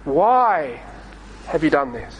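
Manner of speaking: almost whispered sorrowful plea; pleading. Acted. God pleading with disobedient Israel, hushed and sorrowful. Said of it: "and pleads with them".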